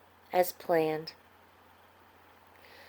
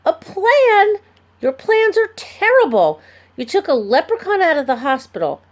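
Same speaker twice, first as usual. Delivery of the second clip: much higher, louder screechy outburst; 9 semitones higher, 4 dB louder than usual. A narrator's reading. Ben scolding Pearl, loud screechy rant. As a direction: let the voice crack up high. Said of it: "Ben's voice got kinda screechy".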